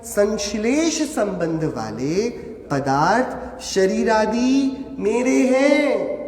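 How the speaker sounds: शरीर आदि मेरे हैं drawn out word by word, very slow; slow demonstration. Shown as a demonstration. Teacher demonstrating the claim to students, very slow. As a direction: spell the claim out slowly for the class. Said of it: "अब क्या कर रहे हैं?".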